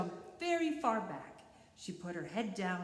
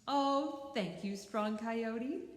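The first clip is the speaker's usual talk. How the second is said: mock gratitude; 4 semitones higher, 3 dB louder, slower than usual. Borreguita fakes gratitude.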